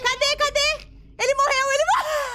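loud, high excited yells; excited shouting. Real, not acted. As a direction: cheer the kill out loud. Excited at kill in game.

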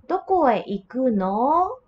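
"Doko e iku no?" with the pitch rising on the last "no"; curious "Doko e iku no?", tone rising at the end; rising question tune. Shown as a demonstration. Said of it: "You raise the tone".

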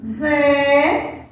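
"Ve" held long as a separate syllable; last chunk "Ve", drawn out and set apart. Shown as a demonstration. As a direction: stretch "Ve" out on its own. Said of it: "vamos separar a palavra nave".

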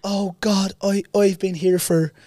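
delighted trolley lady. Retold or imitated. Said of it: "And she's like".

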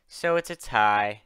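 slow, weighted sigh of resignation. Acted. Sundew sums up the split vote, sighing. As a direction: draw it out slowly as you sigh. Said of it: "Sundew said with a sigh".

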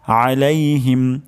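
drawn-out আলাইহিম, throat squeezed at the start; mid-throat ayn. Shown as a demonstration. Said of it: "গলার মাঝখান থেকে". (গলার মাঝখান থেকে আলাইহিম)

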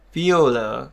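"Violet" stressed at the end; teacher's demonstration of "Violet", end-stressed; stress on final syllable. Shown as a demonstration. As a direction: lean on the last syllable of "Violet". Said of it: "nhấn vào violet luôn".

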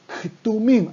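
KTUMIM with the K heard right before the T; Ktumim, K-T cluster with no vowel between; sounded initial K. Shown as a demonstration. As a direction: pronounce both K and T at the start of "Ktumim". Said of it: "hay que pronunciar la K del principio".

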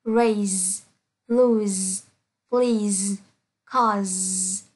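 "raise", "lose", "please", "cause" each ending in a buzzed z; word by word, held z closing "raise" to "cause"; final z sound. Shown as a demonstration. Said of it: "S E đọc là Z".

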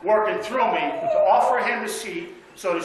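chuckling through the words; sheepish laughing admission. Real, not acted. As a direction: laugh as you confess. Laughing confession to congregation.

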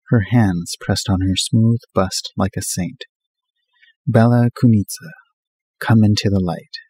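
lightly mock-solemn poem reading, slowing on the names; reading a poem aloud. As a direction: recite the verse a little grandly, half in fun. Reads poem aloud from magazine.

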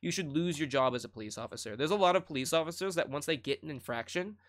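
usual speaking voice

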